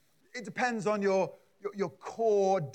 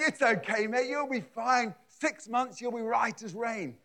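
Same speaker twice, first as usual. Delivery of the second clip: laughing reassurance; 5 semitones higher than usual. Retold or imitated. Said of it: "would probably be laughing and going".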